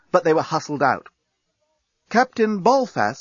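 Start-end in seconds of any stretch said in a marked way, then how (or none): 2.1-3.2 cool voice. Acted. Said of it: "said Nettie in a cool voice".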